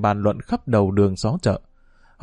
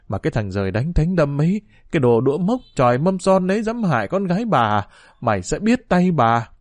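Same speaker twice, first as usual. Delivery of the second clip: furious scolding; 2 semitones higher than usual.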